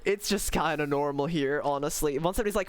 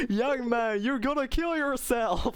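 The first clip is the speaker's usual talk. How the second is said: mock-exclaiming TV chef, pitched up; Gordon Ramsay; 7 semitones higher than usual. Streamer quoting the original meme to chat, mock-alarmed chef. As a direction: lightly imitate a worked-up chef scolding someone. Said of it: "the original is".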